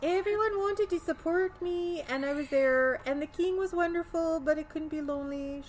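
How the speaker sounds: find the Swedish groove again; Swedish accent. Acted. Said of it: "I gotta find my Swedish groove again".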